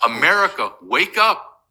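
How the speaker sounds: sharp rising plea to America; urgent call. Real, not acted. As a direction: call out to wake the country. Urgent appeal to the nation.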